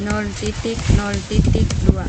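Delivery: loud, deliberate dictation; dictating. Real, not acted. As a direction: call the numbers out clearly. Dictating IP address to partner.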